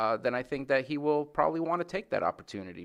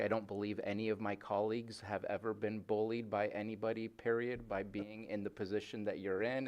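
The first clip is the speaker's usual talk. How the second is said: sarcastic; 6 dB quieter than usual. Acted. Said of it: "I'm gonna say very sarcastically".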